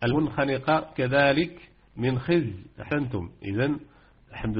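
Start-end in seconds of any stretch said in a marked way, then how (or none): 0.0-2.5 recited example. Shown as a demonstration. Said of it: "وردت معرفة المنخنقة".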